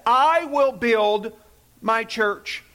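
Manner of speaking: "I will build" lento e forte, "my church" mais suave; slow emphatic quote. Shown as a demonstration. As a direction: proclaim slowly, dropping on "my church". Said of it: "Jesus said".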